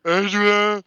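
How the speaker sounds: high, loud bellowed Adrian!; mock shout. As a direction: yell Adrian! like Rocky at the end of the fight. Yelling the famous Rocky line.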